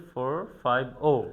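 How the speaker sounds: FOUR FIVE OH as three separate digits; digit-by-digit reading. Shown as a demonstration. Teacher showing how a number is read, digit by digit. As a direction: read ফোর ফাইভ oh digit by digit. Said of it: "তখন আমরা এটাকে বলি".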